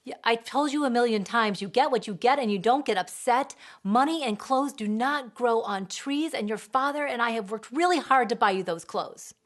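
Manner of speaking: loud, preachy parent lecture; lecturing. Retold or imitated. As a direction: lecture the child. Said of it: "or we lecture".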